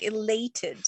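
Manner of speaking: breathy whisper of "elated". Shown as a demonstration. Host describing the feeling, whispered. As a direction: drop to a whisper on the word. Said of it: "You may be, like".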